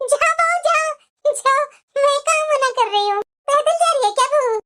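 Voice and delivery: cowed mother-in-law. Acted. Mother-in-law yielding to the younger bahu, meekly. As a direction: back down sheepishly.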